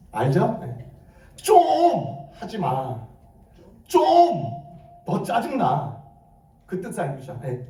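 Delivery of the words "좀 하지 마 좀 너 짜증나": irritated Gyeongsang outburst, the first word drawn out; Gyeongsang dialect. Shown as a demonstration. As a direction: scold in a put-on Gyeongsang dialect, pitch jumping up. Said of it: "경상도 사투리로 한번 볼까요".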